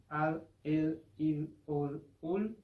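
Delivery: Portuguese dark l. Shown as a demonstration. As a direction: hold the l back in the throat. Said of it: "un sonido un poco diferente del español".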